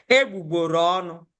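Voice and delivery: "Egbugboro ọnụ" run together as one phrase; joined together. Shown as a demonstration. Teacher showing the word pronounced together, "Egbugboro ọnụ" joined up. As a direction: say "Egbugboro ọnụ" without breaking the syllables. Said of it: "Join it together".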